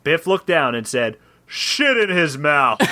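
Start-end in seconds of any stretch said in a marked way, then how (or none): 1.5-2.8 slow, drawn-out order; hammed-up slow order; hero's command. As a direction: command the owls, stretching each word. Hero orders owls to retaliate.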